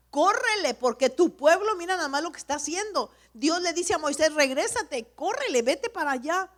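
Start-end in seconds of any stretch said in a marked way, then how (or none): 0.1-3.1 God loudly ordering Moses to hurry, words rushed at the end; high, loud and urgent; urgent loud command. Acted. 4.3-6.5 urgent command. Acted. God ordering Moses back down.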